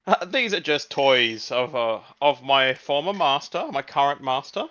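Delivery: calm the frightened raider politely; polite robot butler. Acted.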